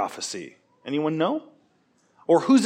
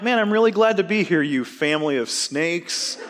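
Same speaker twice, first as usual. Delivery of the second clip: mock friendly insult. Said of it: "what if I got up here and I'm like".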